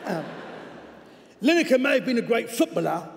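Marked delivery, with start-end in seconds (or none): 1.4-3.1 overcooked cockney on "footballer"; overdone cockney. Acted. Coach's letter judging the presenter as a player, in overdone cockney. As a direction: lay the cockney on too thick, higher. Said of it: "I may have overcockneyed that".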